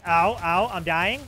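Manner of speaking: loud panicked cries; being chased. Real, not acted. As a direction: yelp as you get hit. Being attacked in game.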